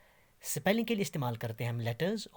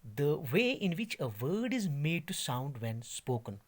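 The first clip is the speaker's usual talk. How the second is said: slow dictation; much slower than usual. Shown as a demonstration. Teacher reading a definition slowly to students. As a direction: read out very slowly, word by word. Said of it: "थोड़ा ध्यान दीजिए".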